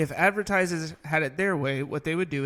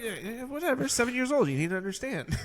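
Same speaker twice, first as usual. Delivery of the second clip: put-on dismissive kid; 8 semitones higher than usual. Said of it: "She's like".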